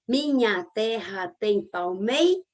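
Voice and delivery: minha terra tem palmei drawn out slowly, cut before ras; slow syllable count. Shown as a demonstration. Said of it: "eu não conto ras".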